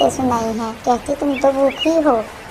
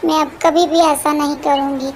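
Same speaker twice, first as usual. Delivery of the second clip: high, begging for mercy; pleading; 4 semitones higher than usual. Acted. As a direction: plead to be forgiven. Gori begs forgiveness.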